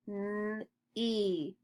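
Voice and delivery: N-E as held N, pause, long E; sounded out. Shown as a demonstration. Teacher models sounds before reading, sounded out. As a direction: softly stretch N-E sound by sound.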